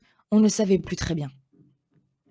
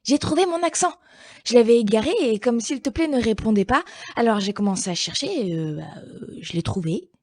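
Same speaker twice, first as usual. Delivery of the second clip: much higher, fast and eager at first; hurried excited little word; breathless rush; 4 semitones higher than usual. Acted. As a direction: burst in proud of the find, then fumble. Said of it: "arrive précipitamment".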